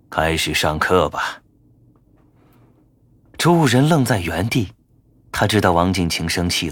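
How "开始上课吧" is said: calm, slow and gentle. Acted. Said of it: "温和地对众巫徒说".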